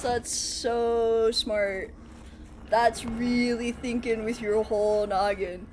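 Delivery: very slow, dragged-out deadpan sarcasm; slow mock admiration; sarcastic praise. Sarcastic praise of own mistake.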